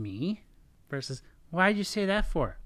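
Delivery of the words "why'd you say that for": high, loud accusing question; confrontational, raised voice; attacking tone. Shown as a demonstration. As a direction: snap it out as a challenge. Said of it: "it's different tone".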